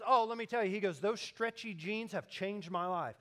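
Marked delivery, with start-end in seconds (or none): 0.1-0.7 loud, high, eager retelling; mock-enthusiastic, pitched up; excited stranger. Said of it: "this guy's excited". 1.0-3.2 mildly gushing retold testimonial; lightly acted enthusiasm; excited stranger. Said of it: "this guy's excited".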